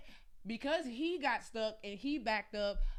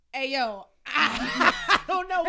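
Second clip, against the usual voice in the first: laughing panic; 5 semitones higher, 12 dB louder than usual. Retold or imitated. Retold panicked call to Marcus.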